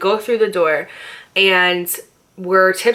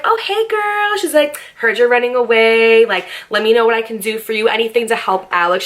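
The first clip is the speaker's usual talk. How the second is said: cheery sister greeting; 3 semitones higher than usual. Retold or imitated. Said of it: "she was like".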